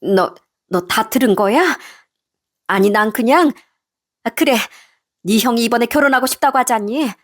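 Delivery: faltering, then pleading excuses; flustered mother-in-law. Acted. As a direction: backpedal to your son, caught out. Mother-in-law caught out, makes excuses.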